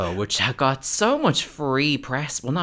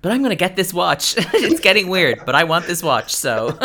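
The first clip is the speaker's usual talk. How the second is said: mock Nene greedy; 8 semitones higher, 8 dB louder than usual. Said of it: "And then she goes".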